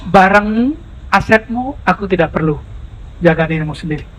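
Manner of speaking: gently decline, letting the voice fall away; calm refusal. Acted. The Prophet gently refusing the man's offered wealth, quiet and calm.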